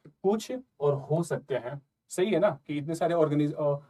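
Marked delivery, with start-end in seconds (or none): 0.1-1.8 slow, separate stress on "कुछ" and "हो सकते हैं"; key words picked out. Shown as a demonstration. Teacher pointing students to two clue words, slow key-word stress. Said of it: "दो word पकड़िए".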